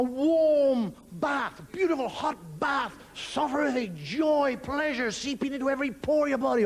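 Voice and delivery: stretched, luxuriating delivery; blissful savouring. Acted. Man enjoying himself in a hot bath, blissful savouring. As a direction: draw out each pleasure slowly.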